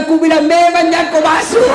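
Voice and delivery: told-you-so shout. Retold or imitated. Villager scolds the man leaving the lift, shouting high. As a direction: throw it at him, vindicated. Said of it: "Dia bilang".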